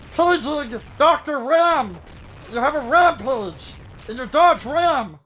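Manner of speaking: slow, high booming announcer; fighting game announcer. Pretend. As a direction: drag it out like a hype announcer. Continuing the announcer bit.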